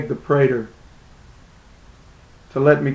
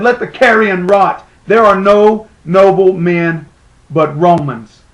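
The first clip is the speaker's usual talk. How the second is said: scornful pronouncement; 2 semitones higher, 4 dB louder than usual. Acted. Quotes scornful Roman patron.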